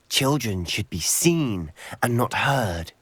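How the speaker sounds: slow, lightly chilled quote; a hint of cold menace, drawn out; icy voice. Sebastian retelling the killer's words, lightly icy. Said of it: "an icy voice drifted out".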